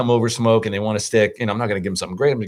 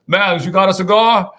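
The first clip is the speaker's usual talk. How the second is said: lightly voiced Cajun buddy, a bit higher; a hint of a Cajun accent, asking casually; 6 semitones higher than usual. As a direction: friend asking for a cigar in a mild Cajun accent. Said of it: "his accent is not gonna translate well".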